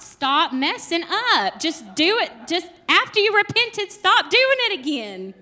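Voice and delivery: plead, half-joking, with someone who wears you out; exasperated. Pretend. Acting fed up with repeat offender.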